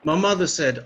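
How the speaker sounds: punchy loud narration; loud emphatic setup. Real, not acted. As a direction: hit "mother" hard. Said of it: "loud setup".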